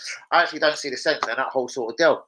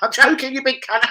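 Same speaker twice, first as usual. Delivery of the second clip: high, loud mocking gotcha; teasing reveal; 11 semitones higher, 6 dB louder than usual. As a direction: crow it like the prank just landed. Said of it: "and you're like".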